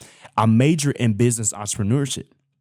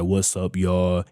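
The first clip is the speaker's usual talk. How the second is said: bland, deep; 3 semitones lower, slower than usual. Retold or imitated. Vlogger mimicking his early videos, bland deep greeting. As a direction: drop the voice deep and lifeless. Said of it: "my voice will be all deep".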